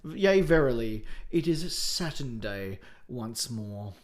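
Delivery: slow, mock-archaic pompous delivery; mock olde English. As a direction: ham up old-fashioned formal speech. Mock olde-worlde podcast intro.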